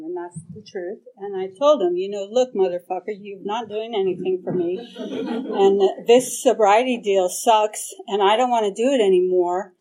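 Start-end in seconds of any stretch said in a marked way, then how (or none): 2.3-9.7 half-voiced rant at God; driving to the meeting, raging at God, understated; mock yell at God. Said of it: "I yelled at him".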